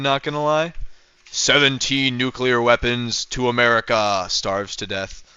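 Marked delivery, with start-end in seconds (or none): 1.3-5.2 slow, lightly put-on North Korean propaganda voice; mock North Korean voice. Streamer joking about being called North Korean, mock propaganda voice. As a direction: read it like a state broadcast, hammed-up. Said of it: "you seem North Korean".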